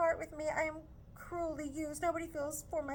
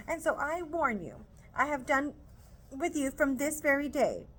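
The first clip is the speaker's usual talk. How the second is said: higher, louder, indignant scolding; scolding mother; 6 semitones higher, 4 dB louder than usual. Acted. Mrs Bennet scolding Lizzie for refusing, loud indignant scold. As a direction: scold the daughter hard.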